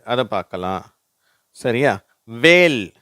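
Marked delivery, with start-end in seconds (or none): 2.2-2.9 "வேல்" starting on w, no h; teacher's clear falling "வேல்"; silent H. Shown as a demonstration. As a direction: model "வேல்" loudly, h left silent. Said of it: "இங்க எச் silent ஆயிடுச்சு".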